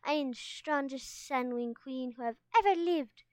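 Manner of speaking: mock-regal boasting, lightly voiced; playful royal swagger; pretend strutting queen. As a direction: boast like a make-believe queen. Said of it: "She strutted across the cave floor".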